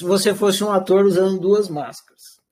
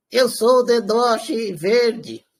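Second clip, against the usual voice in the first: changed puppet voice; 2 semitones higher, slower than usual. Pretend. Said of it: "Vou mudar a voz deles pra vocês pensarem que é diferente".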